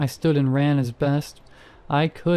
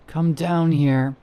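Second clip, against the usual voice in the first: raspy whisper; 3 semitones higher, 3 dB louder, slower than usual. A narrator's reading. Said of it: "said in a raspy whisper".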